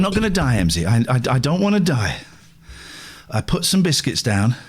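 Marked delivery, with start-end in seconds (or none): 3.3-4.6 a little breathless after exertion; out of breath. Real, not acted. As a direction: talk while catching your breath. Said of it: "I'm out of breath".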